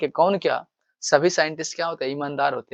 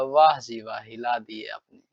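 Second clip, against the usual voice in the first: put-on mischievous boy praising; 3 semitones lower than usual. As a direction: play the cheeky boy who flatters every deed. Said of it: "सब में कहेगा". (शरारती लड़के की हल्की नकल)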